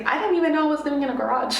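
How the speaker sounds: laughing fast through the words; quick, amused laughing. Real, not acted. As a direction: giggle it out, amused at yourself. Laughing about living in garage.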